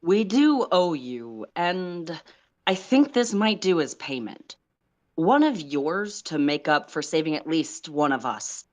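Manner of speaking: a hint of the officer settling a debt; commanding officer. Officer calling in a favor over a secured line, lightly voiced. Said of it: "The commanding officer says over the secured line".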